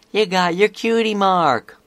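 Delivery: high, loud exclamation; excited shout. Acted. Apple Bloom spotting her friend's new mark, shouting. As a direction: shout it out in amazement. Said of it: "Apple Bloom shouted".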